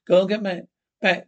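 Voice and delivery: sharp loud command to get back; shouted order. Acted. Marshal shouting at the prisoners to get back, loud. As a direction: drive them back with a shout.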